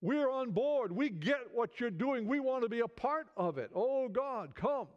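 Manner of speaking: crying out to God. Acted. Preacher voices the people's prayer to God, crying out. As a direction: plead upward, as if calling on God. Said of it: "cry out to God and say".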